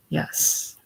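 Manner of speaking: a breathless whispered yes, eyes shut. Acted. Eva half-hypnotised whispers to the warden. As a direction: barely voice it, drifting off.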